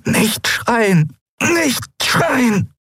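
high, strained, close to breaking; desperate strained plea. Acted. Endriel forcing herself through agony, high and desperate. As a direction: hold back a scream with everything left. Tortured woman holding back scream.

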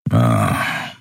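low, short growled grunt; grumpy grunt. A narrator's reading. Keru grunts at the captain, low. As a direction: grunt it low and turn away. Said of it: "wandte sich knurrend ab".

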